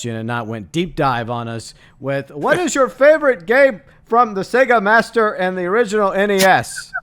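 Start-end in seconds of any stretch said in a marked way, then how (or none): 2.3-6.9 snake impression. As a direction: play the question as a hissing snake. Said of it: "the snake impression".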